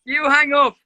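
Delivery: high, sweet lovey-dovey coo; giggly late night call. Real, not acted. Playful you-hang-up game.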